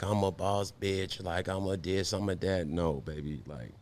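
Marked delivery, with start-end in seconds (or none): 0.0-2.7 soft mocking brag; quietly imitating a boss chick. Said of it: "that aesthetic of, like".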